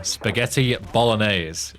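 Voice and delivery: "Spaghetti bolognese" said slowly and fully, stress on "Spaghetti"; spelled out slowly. Shown as a demonstration. Gamer explaining the full dish name to chat, slow and deliberate. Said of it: "It's just short for it".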